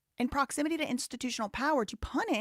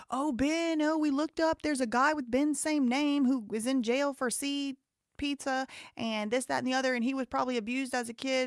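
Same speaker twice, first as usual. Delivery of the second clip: higher, lightly mocking imitation; mocking Ammon; 4 semitones higher than usual. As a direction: parody his fussy accusations. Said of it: "all of that stuff Ammon McNeff was talking about".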